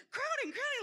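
high-pitched alarm call; retold yell. Nurse yells into the phone about the crowning, very high. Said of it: "she's yelling".

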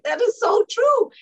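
high, loud burst of agreement; eager high-pitched yes; excited agreement. Retold or imitated. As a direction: exclaim it, thrilled to agree. Agreeing with the radio host.

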